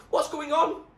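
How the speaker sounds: loud, high yell. A narrator's reading. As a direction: demand it across the shore. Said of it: "a voice yelled at them".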